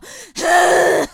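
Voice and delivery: smoker's laugh. Retold or imitated. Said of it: "I can't even do it 'cause I don't smoke".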